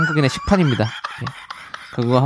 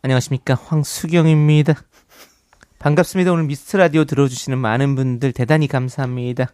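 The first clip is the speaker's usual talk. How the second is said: parody news anchor. Shown as a demonstration. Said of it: "저도 할까요".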